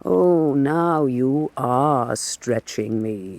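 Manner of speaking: slow, drawn-out mock strain; a hint of amused sarcasm. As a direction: tease him with exaggerated effort. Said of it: "you mock so".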